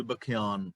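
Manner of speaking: ਬਖਿਆਨ said "bakh-yaan", kh gliding into y; half-y pronunciation. Shown as a demonstration. Teacher spells out the scripture word, ਬਖਿਆਨ as "ba-khyaan". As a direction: join kh to a y sound in ਬਖਿਆਨ, "ba-khyaan". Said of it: "ਇਹਦਾ ਉਚਾਰਨ ਇੰਝ ਹੋਏਗਾ".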